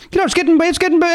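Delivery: put-on high, strong Chicago accent; Chicago guy accent, clearly put on. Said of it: "in that Chicago accent".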